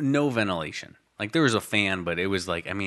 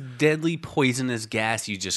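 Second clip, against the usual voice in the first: alarmed dad; 5 semitones higher than usual. Retold or imitated. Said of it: "He was like".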